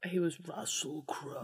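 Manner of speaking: hushed, unvoiced aside; soft insistent whisper. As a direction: whisper it under the other speaker. Cheeky aside repeating the actor's name.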